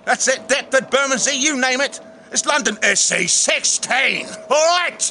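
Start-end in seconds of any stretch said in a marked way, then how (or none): 2.3-5.0 drawn-out cockney with rising emphasis; hammed-up London accent. Host boasts of London postcode, mock cockney. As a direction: play up the London hard man.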